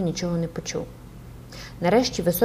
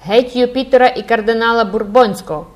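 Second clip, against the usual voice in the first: loud higher bellow; bawling students; 4 semitones higher, 6 dB louder than usual. A narrator's reading. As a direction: bawl it out with the rowdy students. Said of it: "горлали Робен Пуспен".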